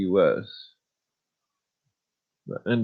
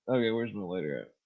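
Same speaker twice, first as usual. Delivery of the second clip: ordinary delivery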